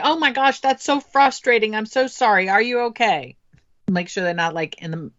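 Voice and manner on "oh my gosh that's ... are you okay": empathetic parent. Shown as a demonstration. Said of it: "You're supposed to say".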